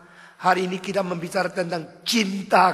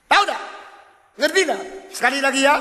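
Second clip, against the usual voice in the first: high, loud lecturing question; scolding preacher; 9 semitones higher, 9 dB louder, much faster than usual. Acted. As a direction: quiz him sharply, high and loud.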